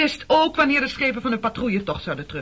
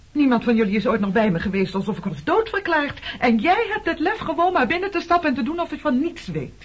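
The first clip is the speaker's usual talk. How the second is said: rising anger; 5 semitones higher, 3 dB louder than usual. Acted. Accusing quarrel, voice rising.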